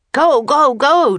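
loud, high, urgent shouting; panicked urging; frantic cry. Acted. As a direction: yell it urgently, pitch right up. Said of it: "Jack cried".

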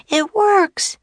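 very high-pitched, delighted cry; excited girlish cheer; jubilant call. Acted. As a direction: exclaim it in triumph. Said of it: "called Annie".

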